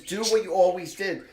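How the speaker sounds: urging daughter. Retold or imitated. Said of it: "she says".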